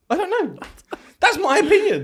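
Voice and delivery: high, giggly, breaking into laughs; laughing. Real, not acted. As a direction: say it through laughter. Mock deep pondering, laughing.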